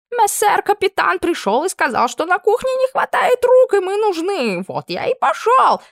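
offended cry. Acted. Camp cook shouting to Anna, offended and squeaky. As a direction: cry it out, wounded.

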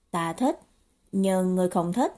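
calm, understated answer; cool, reserved. Acted. Đáp lại điềm tĩnh, lạnh nhạt. (điềm tĩnh, hơi trầm giọng)

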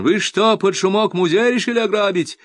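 high, loud accusing shout; accusing yell. A narrator's reading. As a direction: bellow the accusation. Docent yells accusing.

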